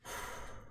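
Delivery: soft long breath; deep breath in and out. Acted. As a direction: inhale hard and let it go. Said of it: "Wilbur breathed deeply".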